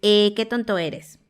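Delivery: "Eh" said as a clear E; a plain E instead of the schwa; e sound. Shown as a demonstration. Teacher shows the wrong E vowel. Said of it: "tampoco es una E".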